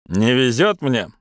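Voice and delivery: slow, lilting Irish brogue; Irish accent. Acted. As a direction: lay on a light Irish lilt. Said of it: "сказал он с ирландским акцентом".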